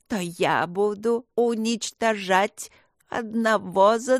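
медленно, нечеловечески, с угрозой; растягивать слова, как потустороннее зло; демонический голос зла. Acted. (зло насмехается над мальчиком, медленно и жутко)

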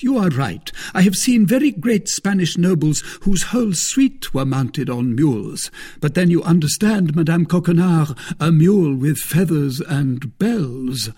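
Porthos, self-satisfied. Acted. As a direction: play Porthos, pleased with his own scheme. Porthos quoted in the story.

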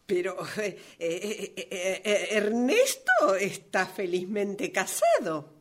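stammering, disbelieving objection; flustered. Acted. Author caught off guard by her own character, flustered. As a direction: stumble on repeated "eh", then protest.

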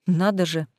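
usual speaking voice

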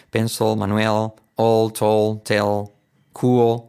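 final L of "Pencil", "Manuel", "tell" swallowed back; word drill with backed 'ol' endings; L far back and barely heard in "cool"; dark L list. Shown as a demonstration. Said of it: "muy atrás".

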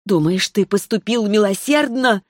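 hissed. Acted. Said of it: "прошипела Райна".

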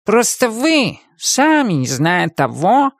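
sighing. Acted. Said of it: "вздохнул кот".

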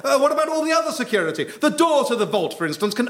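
high rushed panic; flustered, fast. Acted. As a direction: gabble it out in alarm. Stuck to chair, panicking.

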